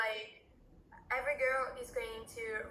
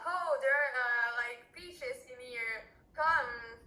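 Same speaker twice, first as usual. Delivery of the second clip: mock market cry; 3 dB louder, slower than usual. Shown as a demonstration. Showing the players how market sellers shout, mock market cry. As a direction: call out like a fruit seller, half in earnest. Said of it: "you have to scream".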